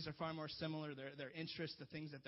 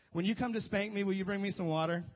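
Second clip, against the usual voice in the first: put-on kid's cheeky request; 3 semitones higher, 7 dB louder than usual.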